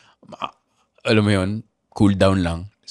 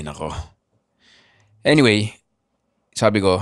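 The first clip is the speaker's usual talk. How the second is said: ordinary talk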